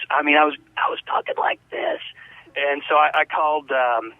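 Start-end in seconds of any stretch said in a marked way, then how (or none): 0.8-2.0 hoarse, voice nearly gone; lost voice. Shown as a demonstration. Host demonstrating last Sunday's lost voice for listeners, hoarse. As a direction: imitate having no voice left. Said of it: "I had no voice".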